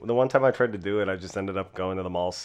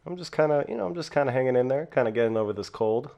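talking around cough drops; mouth full. Real, not acted. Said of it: "four cough drops in my mouth right now".

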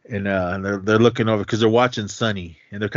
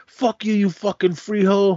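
high cursing retold with a hammed-up edge; mock angry curse; 10 semitones higher than usual. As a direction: spit it at the other driver. Driver cursing in street fight.

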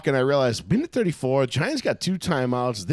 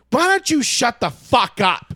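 retold angry snap; 8 semitones higher, 4 dB louder than usual. Cute girl turns and snaps.

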